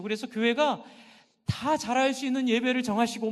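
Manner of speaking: normal talking voice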